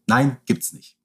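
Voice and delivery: ordinary delivery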